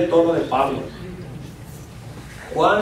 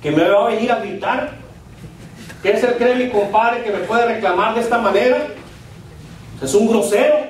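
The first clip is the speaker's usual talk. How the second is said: mildly offended grumbling; mock indignant. Angry husband reacts to his compadre's note, mildly indignant. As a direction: bristle at the compadre, half in earnest.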